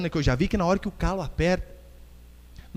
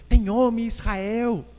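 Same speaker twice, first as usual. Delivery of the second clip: Golias afrontando; 5 semitones higher, slower than usual. Acted. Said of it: "isso aí que é afronta".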